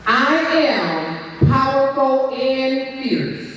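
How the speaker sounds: slow, deliberate declaration. Shown as a demonstration. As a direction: declare each word slowly. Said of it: "And you're gonna repeat after me".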